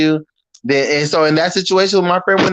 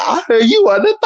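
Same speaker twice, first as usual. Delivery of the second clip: high, put-on voice of the girl picking a fight; mocking the girl; 7 semitones higher than usual. Imitating the girl who came down to start a fight. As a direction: squeak it out like a mock challenger. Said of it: "She was like".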